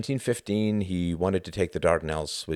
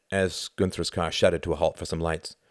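plain reading voice

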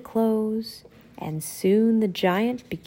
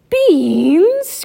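loud whisper, pitched up; whispered disbelief; 8 semitones higher, 8 dB louder than usual. Acted. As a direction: hiss it in outrage. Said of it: "cried Donald".

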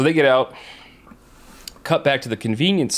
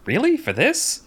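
mocking disbelief; 8 semitones higher, slower than usual. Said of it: "kinda laughing at him like".

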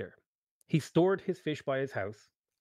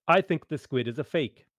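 louder and higher accusation; crying out; 3 semitones higher, 4 dB louder than usual. Acted. Wizard accusing the fisherman in front of the crowd, loud. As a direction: call the fisherman out before the crowd. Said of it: "cried out".

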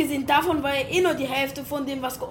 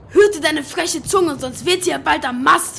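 angry threat; 5 dB louder than usual. Acted. Captain droht frechem Matrosen. (wütende Drohung)

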